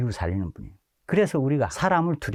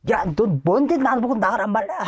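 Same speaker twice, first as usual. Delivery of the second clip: put-on higher, cheeky tough-kid retort, laughing; mimicked defiant boy; 9 semitones higher, 3 dB louder than usual. A boy defying the preacher, high and laughing. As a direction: challenge him like a hot-headed teen.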